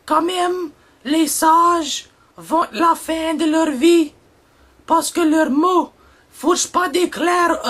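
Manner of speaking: measured poetic reading with pauses; poem recital. Acted. Reads his poem translation aloud. (récitation de poème lente et solennelle)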